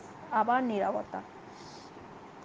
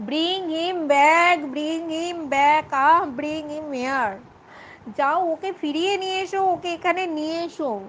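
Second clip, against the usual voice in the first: wailing; 4 semitones higher, slower than usual. Acted. Daughter begging father to bring suitor back, wailing. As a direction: plead as if heartbroken, hammed-up. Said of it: "আর্তনাদ করে উঠল".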